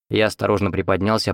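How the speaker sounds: ordinary delivery, nothing marked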